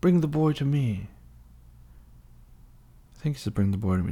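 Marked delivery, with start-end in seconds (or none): 0.0-1.1 high, theatrical evil master; villain's command. Retold or imitated. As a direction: summon him like a dark lord. Acting Voldemort's command.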